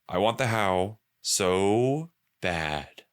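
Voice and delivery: slow, drawn-out longing; slow emphatic. Shown as a demonstration. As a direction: stretch every word with craving.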